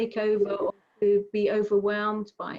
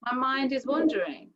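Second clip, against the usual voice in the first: kind to yourself; 4 semitones higher than usual. Shown as a demonstration. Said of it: "be kind to yourself and just say".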